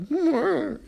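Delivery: high, feeble mock trumpet noise; comic wavering horn sound; imitated trumpet attempt. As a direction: mimic a crying player's failed note. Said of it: "he tries to play his trumpet".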